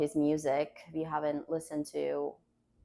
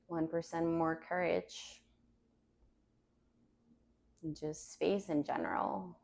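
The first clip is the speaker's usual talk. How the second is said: calm grounding exercise. Acted. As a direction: guide them gently to the mat. Yoga teacher guides grounding.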